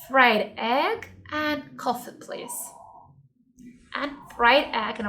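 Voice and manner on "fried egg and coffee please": slow order. Shown as a demonstration. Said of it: "let's imagine that you are in the restaurant".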